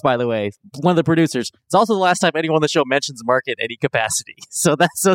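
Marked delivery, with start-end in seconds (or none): 1.7-4.3 snarky. Retold or imitated. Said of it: "some snark in the notes".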